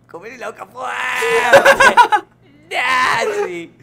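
high, drawn-out comic shout; shouted urging. Acted. Teacher egging the pupils on, high loud shout. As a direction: yell it high and stretch the last word.

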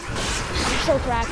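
slow, low zombie-modified voice. Real, not acted. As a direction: drawl it like a zombie. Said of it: "sound like a straight up zombifier".

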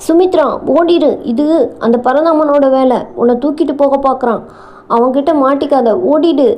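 acted cry of alarm, pressing and hurried; urgent shouting. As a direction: urge her to flee at once. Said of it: "தங்கையிடம் கத்தினான்".

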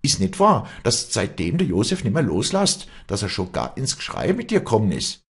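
high, loud tirade; heated cross-examination at high pitch; furious accusation. Acted. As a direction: pile up accusing questions, voice leaping up. Acted quarrel, public accusation.

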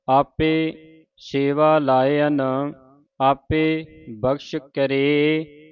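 very slow syllable by syllable recital; slow scripture recital. Shown as a demonstration. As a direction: recite it slowly for learners. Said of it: "ਉਚਾਰਨ ਸਿੱਖਣਾ ਹੈ".

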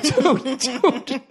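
dude slipping into a laugh. Retold or imitated. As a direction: call out dude while laughing. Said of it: "Doing that dude while laughing".

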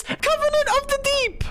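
very high, held-out squeaky character voice. Retold or imitated. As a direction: push the pitch way up and hold it for the character. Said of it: "Around the homies, you talk like this".

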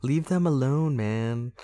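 hint of an indignant activist; dinosaur activist. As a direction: plead like a mock activist. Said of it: "dinosaur activists".

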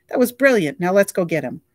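high, loud praise; pumped about the shot; excited director. A narrator's reading. Director praising the stunt over the radio, excited.

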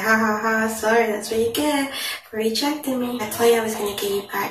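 lightly voiced gloating girl; a touch of taunting glee; mild mocking laugh. Other girl's text quoted, mild mocking laugh. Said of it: "laughing at him".

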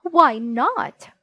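loud exasperated yell; screaming. A narrator's reading. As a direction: yell it back at him. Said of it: "screamed Mom".

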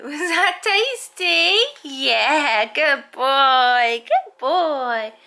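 doggy praise. Real, not acted. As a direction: gush over the dog after his meal. Praising dog after lunch.

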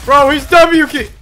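loud, slow outraged shout; outraged yell. Real, not acted. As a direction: bellow it in disbelief. Enemy rushing, yells in disbelief.

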